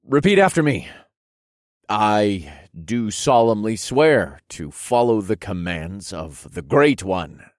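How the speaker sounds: slow, emphatic oath-taking; solemn oath. Acted. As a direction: proclaim it for others to repeat. Oath recited for guardsmen.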